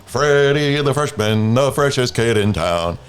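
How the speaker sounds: Foghorn's buddy. Retold or imitated. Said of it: "he says that".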